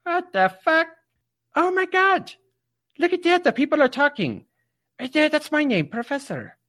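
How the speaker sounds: very high, loud, outraged squeal; shocked outburst. Retold or imitated. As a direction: screech at the cup of ice. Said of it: "And I was like".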